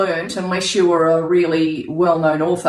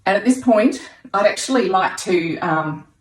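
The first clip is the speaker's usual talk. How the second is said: breathless with excitement; out of breath. Real, not acted. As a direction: talk between quick breaths. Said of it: "Oh, look, I'm out of breath".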